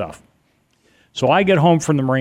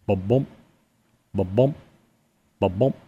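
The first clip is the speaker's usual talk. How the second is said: soft imitated heartbeat thump; 2 semitones lower, 4 dB quieter than usual. Lying in bed imitating a faint thumping heartbeat, softly. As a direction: tap out a quiet heartbeat with the voice. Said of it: "what I think is a heartbeat".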